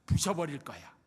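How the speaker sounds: quoting drama line. Retold or imitated. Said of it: "심은하가 이야기했던 그 대사".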